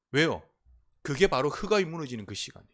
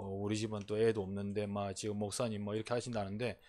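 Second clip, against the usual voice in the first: hurt churchgoer; 7 semitones lower, 9 dB quieter than usual. Retold or imitated. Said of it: "서운해가지고".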